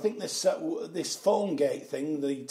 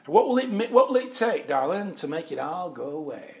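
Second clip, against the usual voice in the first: hammed-up smarmy fixer; 3 semitones higher, 5 dB louder than usual. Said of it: "like they do".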